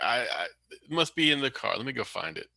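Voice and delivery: a flustered fake New York accent. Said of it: "really bad New York accent".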